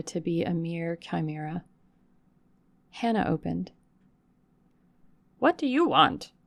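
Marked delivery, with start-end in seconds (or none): 5.4-6.3 higher, louder startled question; surprised. Acted. Servant surprised by a stranger at night, startled. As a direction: caught off guard at the door. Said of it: "in a voice of surprise".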